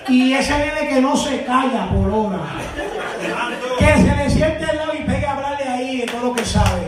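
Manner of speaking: testimony building in pitch and force; rising preaching. Real, not acted. Father preaching about his son who never stops talking, rising preaching. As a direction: build toward a triumphant pulpit delivery.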